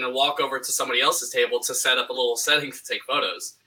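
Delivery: hollow, boxy mic echo; like talking inside a tin can; tin can sound. Real, not acted. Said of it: "you don't sound like you're in a tin can".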